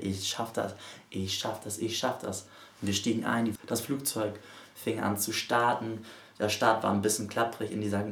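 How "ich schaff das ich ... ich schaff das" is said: softer repeated self-encouragement, half whispered at first; quiet mantra. Retold or imitated. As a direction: murmur it to yourself to stay brave. Self-talk mantra in the plane. (leises Mantra zur Selbstermutigung)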